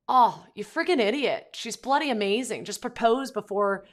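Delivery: put-on rough Australian accent, lightly done; mock Australian accent. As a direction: ham up an Aussie mate telling his friend off. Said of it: "It was, like, a real Australian bloke".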